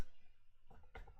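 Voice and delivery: soft, voiceless laugh. Real, not acted. Player amused by vase or vase, quiet laugh.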